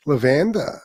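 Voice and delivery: "Lavanda" said as la-VAN-da; mispronounced lavender. Retold or imitated. Host repeating rival's silly word for lavender, mispronouncing "Lavanda". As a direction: savour a mocking "Lavanda", stressed on VAN. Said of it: "That's how my wife pronounces lavender".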